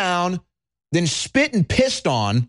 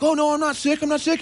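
higher-pitched mock protest; protesting mask wearer; 9 semitones higher, faster than usual. Mask wearer assuring the panicking host, mock protest. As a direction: lightly voice a defensive mask wearer. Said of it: "And they're like".

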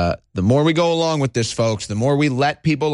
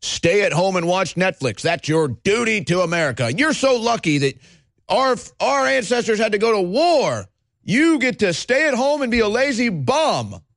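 sing-song mock of the official line, higher; mocking quote; 5 semitones higher than usual. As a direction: parrot them with sarcasm. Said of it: "what did they say?".

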